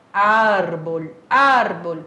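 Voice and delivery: árbol with the stress on ÁR; árbol, first syllable strong and held. Shown as a demonstration. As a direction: hit the AR of árbol, let bol fall away. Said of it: "a sílaba tônica é o ar".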